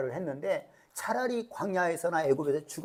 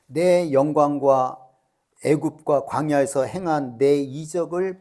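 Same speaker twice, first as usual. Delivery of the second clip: voice of God. Acted. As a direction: boom out each word as God passing sentence. Preacher voices God's judgement.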